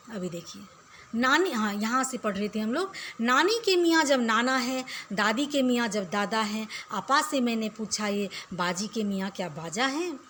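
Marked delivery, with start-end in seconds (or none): 3.2-10.2 steady rhythmic verse reading for pupils; poem recitation. Acted. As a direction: read the rhyme out to the class.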